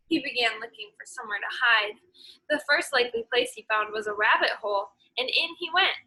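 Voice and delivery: lively storybook read-aloud for a class; teacher reading a folk tale aloud; story reading to children. Acted. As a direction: read it like story time, voicing every animal. Reads picture book to class.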